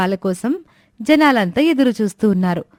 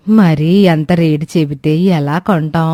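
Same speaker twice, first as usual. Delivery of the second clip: put-on lower-pitched old woman, complaining; old woman Suramma; 7 semitones lower, 4 dB louder than usual. Old woman scolding the late milk seller, lower grumbling voice. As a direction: grumble like an impatient old granny.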